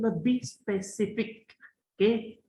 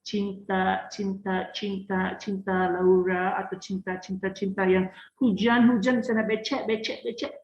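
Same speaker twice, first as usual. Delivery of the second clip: put-on Cinta Laura mixed accent. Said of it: "bilang seperti kayak cinta".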